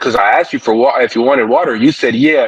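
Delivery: ordinary delivery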